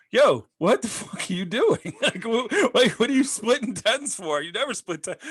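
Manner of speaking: loud, high-pitched mock outrage; acted table-wide protest, voice jumping up high; incredulous objection. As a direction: call him out in laughing disbelief. Whole table objects to player's move.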